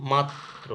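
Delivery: মাত্র split as mat-tro, t held; doubled ত. Shown as a demonstration. Teacher shows students doubling, মাত্র as mat-tro. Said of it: "double হয়েছে".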